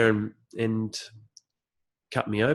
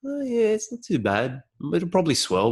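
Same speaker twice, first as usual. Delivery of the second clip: hopeful inner voice; 8 semitones higher, 3 dB louder than usual. Retold or imitated. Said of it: "started on the bike".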